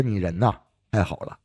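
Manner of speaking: lightly acted heartfelt thanks, voice dropping; imitated grateful praise. Old patient praising his doctor that evening, mildly warm and grateful. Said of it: "就表扬我".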